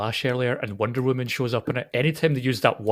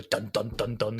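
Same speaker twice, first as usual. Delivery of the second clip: low, soft imitated drumbeat; mock dramatic sting; 6 semitones lower, 8 dB quieter than usual. Co-host picturing a hammer-off, mock suspense beats. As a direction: intone low, even duns.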